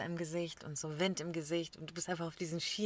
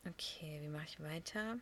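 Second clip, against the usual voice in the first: breathy whispered aside, softer; whispered okay; 4 semitones lower, 11 dB quieter than usual. Real, not acted. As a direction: drop to a whisper for a private okay. (geflüstertes Okay)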